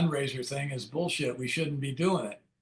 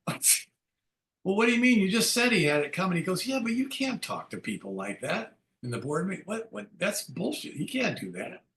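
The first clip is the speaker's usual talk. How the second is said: friend's voice, imitated; 3 semitones higher than usual. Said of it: "And he says".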